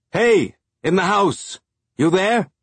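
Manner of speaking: high, slow call across the yard; shouting. A narrator's reading. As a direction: hands cupped, shout to the house. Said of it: "cupping his hands around his mouth and shouting".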